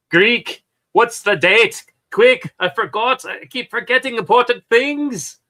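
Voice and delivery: loud, high, frantic yell. A narrator's reading. Temple panicking about the date, yelling at the Greek. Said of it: "yelled at".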